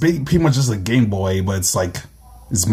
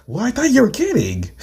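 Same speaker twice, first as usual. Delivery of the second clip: high-pitched protest; 13 semitones higher than usual. Acted. Friend thought he was kidding, high-pitched protest. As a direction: voice jumping up in acted disbelief. Protest at a taken-back claim.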